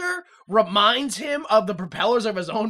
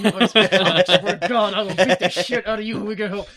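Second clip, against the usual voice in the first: threatening parent; 4 dB louder than usual. Retold or imitated. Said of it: "like it's, you know, your kid".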